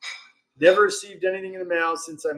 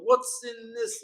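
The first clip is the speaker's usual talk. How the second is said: higher and pointed, a little softer; raised indignant question; indignant demand; 7 semitones higher, 6 dB quieter, slower than usual. Retold or imitated. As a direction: push the question at him. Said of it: "And he's like".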